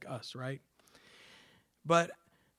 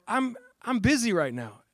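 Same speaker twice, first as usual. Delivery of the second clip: higher, hammed-up busy excuse; mock excuse; 6 semitones higher, 5 dB louder than usual. Preacher imitating a busy excuse-maker, mildly mocking. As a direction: brush off the call, mock-harried. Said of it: "some people go".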